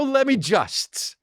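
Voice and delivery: stretched-out "Let me just" with a drop on "me"; drawn-out mock quote. Mocking her catchphrase, dragged out slowly.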